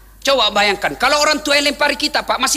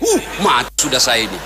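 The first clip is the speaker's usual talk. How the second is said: dismayed shout; 12 semitones lower than usual. Acted. Sick man dismayed, Prophet visits.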